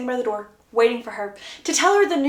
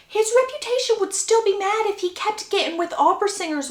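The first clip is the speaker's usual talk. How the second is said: incredulous; 9 semitones higher than usual. Acted. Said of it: "looks at Violet like she is crazy".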